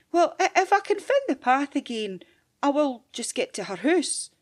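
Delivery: put-on unsure wee girl; little girl voice. Girl speaks.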